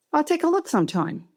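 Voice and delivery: lightly voiced Southern boss; Stuart. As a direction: brush it off with a Southern accent. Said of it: "He came out very Southern".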